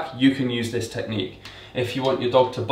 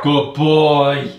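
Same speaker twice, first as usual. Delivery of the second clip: excited praise; 2 semitones higher, 7 dB louder than usual. Real, not acted. Trainer praising Freddie for barking, loud and happy. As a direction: reward him with your voice.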